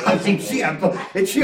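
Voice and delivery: quiet laugh through the words; real laughing aside; soft laughter. Real, not acted. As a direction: chuckle as you start the line. Laughing at his own story.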